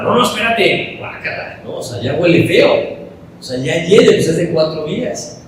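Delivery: high, grossed-out protest; disgusted Marta. Acted. Marta refusing to open the tomb, high and disgusted.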